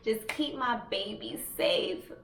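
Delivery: retold plea to God; earnest re-enacted praying; pleading prayer. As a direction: beg God, drawing out the key words. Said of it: "praying to God".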